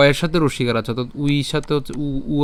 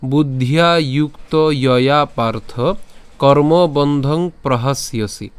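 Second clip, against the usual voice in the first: slow, measured Sanskrit shloka recitation; verse recitation; slower than usual. Shown as a demonstration. Teacher presenting today's shloka to learners, slow recitation. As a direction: recite the verse slowly, drawing out the long vowels. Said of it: "আজকের শ্লোকটি হলো".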